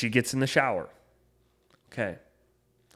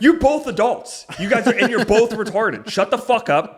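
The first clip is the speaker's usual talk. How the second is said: exasperated retort; 11 semitones higher, 8 dB louder than usual. Retold or imitated. Telling off his mom and older brother, exasperated shout. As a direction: scold both sides, half laughing. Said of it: "And it's like".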